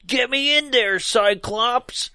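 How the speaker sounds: a hint of the pleading professor; mock commanding Professor X. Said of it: "Professor X is like".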